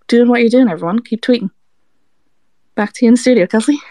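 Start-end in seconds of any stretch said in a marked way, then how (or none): 2.7-3.8 louder, punchy studio hand-off; news anchor sign-off. Pretend. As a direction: sign off like a field reporter on air.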